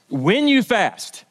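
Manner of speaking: "When you fast" said slowly, leaning on "When"; stress on WHEN. Shown as a demonstration. Pastor to congregation, slow weight on "When". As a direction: draw out "When" slowly so it lands as certain. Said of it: "not if you fast".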